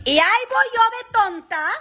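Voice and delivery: high, fast mock-dumb voice in Spanish; mock self-scolding. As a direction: play the naive fool at yourself. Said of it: "there I go, being a dumb, naive self".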